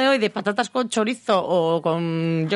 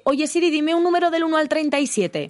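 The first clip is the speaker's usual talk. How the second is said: talking to Siri; 7 semitones higher than usual. Real, not acted. Speaking to voice assistant.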